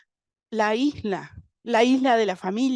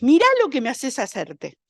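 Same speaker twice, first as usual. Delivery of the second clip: blaming abuser; 3 semitones higher than usual. Retold or imitated. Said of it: "una frase que la he escuchado".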